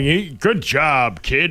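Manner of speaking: mock professorial voice with a praising, approving tone. Comparing someone's compliment to a professor praising a kid, imitating a professor praising. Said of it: "professor going".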